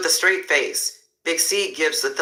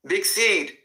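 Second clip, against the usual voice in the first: raised call across the lot; 5 semitones higher than usual. Acted. Flagman hails Big Seed from the truck, calling out. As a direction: hail him from the moving truck.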